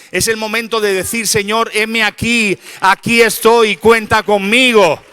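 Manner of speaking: high, loud, building to a shouted climax; preaching at full force. Real, not acted. Preacher urges church to answer the Lord today, full-force preaching. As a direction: drive each declaration harder until the last rings out.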